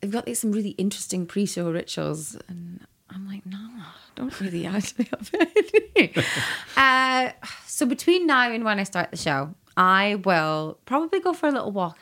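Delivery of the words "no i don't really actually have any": whispered reply with a laugh inside; whispered aside. Retold or imitated. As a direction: confide it like a guilty secret. Retold own reply to interviewers.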